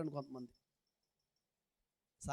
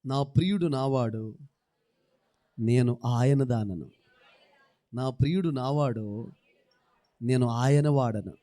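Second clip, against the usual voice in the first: slow, loud, measured declaration; slow proclamation; 6 semitones lower, 8 dB louder, slower than usual. Real, not acted. Preacher leading the church in the verse, slow and loud. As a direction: lay down every word with weight.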